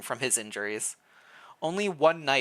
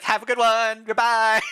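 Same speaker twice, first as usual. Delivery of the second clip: cheerful farewell; 10 semitones higher, 8 dB louder than usual. Pretend. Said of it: "do the wave and be like".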